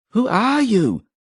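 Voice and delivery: high scream of panic; sudden scream. A narrator's reading. Hedrigal screaming at a dead man, high and terrified. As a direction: shriek the question in terror. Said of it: "he screamed suddenly".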